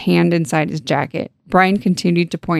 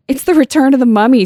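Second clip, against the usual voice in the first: raised, higher shout read from a book; shouted jeer; 7 semitones higher, 5 dB louder, faster than usual. Acted. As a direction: call it out loud and quick. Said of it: "someone shouted".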